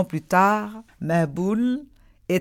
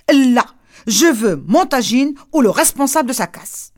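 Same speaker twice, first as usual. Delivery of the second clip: stubborn demand; 4 dB louder than usual. Acted.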